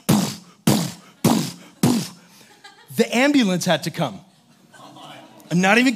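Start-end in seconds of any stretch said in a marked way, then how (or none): 0.1-2.1 mock punch sounds. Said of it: "got on his chest and was like".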